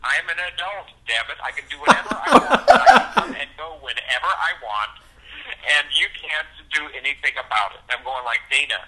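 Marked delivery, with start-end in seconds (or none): 0.0-7.8 loud, defiant shouting with laughter; defiant teen yelling. Retold or imitated. Teen daughter yelling at dad. 8.5-8.8 stern dad command. Retold or imitated. Dad ordering daughter downstairs.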